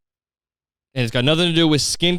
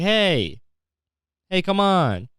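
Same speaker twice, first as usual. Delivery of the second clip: high-pitched, pleading objection; hammed-up "hey now" complaint; mock protest; 7 semitones higher, much slower than usual. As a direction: protest like someone calling foul. Mock objection to war crimes.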